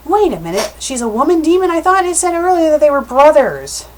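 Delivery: high-pitched, baffled objection; real confusion. Real, not acted. Reader questioning what the story said earlier, high and baffled. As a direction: pitch climbing in puzzled disbelief.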